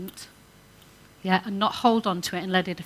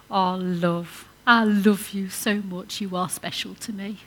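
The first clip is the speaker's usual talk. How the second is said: tender. Pretend. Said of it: "wouldn't it be lovely".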